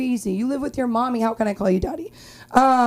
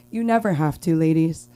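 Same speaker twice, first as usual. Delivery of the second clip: ad voice; 5 semitones lower than usual. Shown as a demonstration. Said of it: "That's like an Uber ad".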